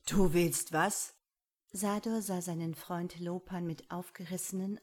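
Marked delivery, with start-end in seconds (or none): 0.1-1.1 shocked. Acted. Friend hears a shocking plan.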